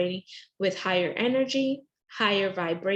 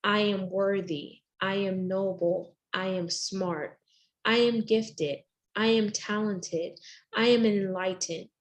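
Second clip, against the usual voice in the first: affirmations. Shown as a demonstration. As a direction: recite each affirmation deliberately. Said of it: "you start to recite".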